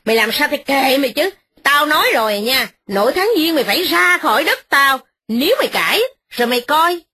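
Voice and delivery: lady of the house snapping at her begging tenant; snapping scold. Acted. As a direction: bark the threats down at him. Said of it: "Mợ Hai nạt rằng".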